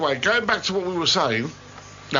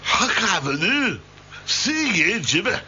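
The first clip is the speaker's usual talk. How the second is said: slow, lightly put-on Scottish accent; slower than usual. Shown as a demonstration. Presenter defending his impression, mock Scottish accent. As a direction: do a comic Scottish accent, drawn out. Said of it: "That's a great Scottish accent".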